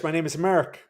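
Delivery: mock Irish, Mark turned into "Merk"; Irish accent. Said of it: "If you speak Irish".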